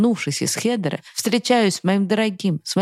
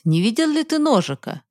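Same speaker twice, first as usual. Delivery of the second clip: father calling; 7 semitones higher than usual. Acted. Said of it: "позвал меня на следующий день отец".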